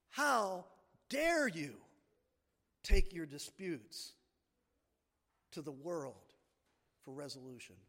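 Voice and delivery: forceful HOW DARE YOU, falling away low; emphatic, deliberate reproach, loud start fading to low; strong rebuke. Acted. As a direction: come down hard on "dare you", pausing between phrases. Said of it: "That's how strongly he's speaking".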